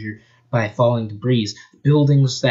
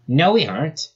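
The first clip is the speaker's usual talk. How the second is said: yelling; 5 semitones higher than usual. Acted. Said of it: "yelled Sonic".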